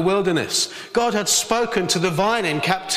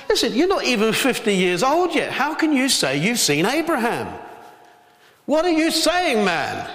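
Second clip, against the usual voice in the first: mock incredulous crowd; 5 semitones higher than usual. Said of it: "And they said".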